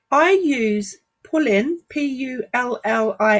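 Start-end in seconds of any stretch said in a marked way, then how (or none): 1.2-1.8 London accent with a dropped G. Real, not acted. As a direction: say "Pullin" in a casual London accent. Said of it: "excuse my, um, dodgy London accent".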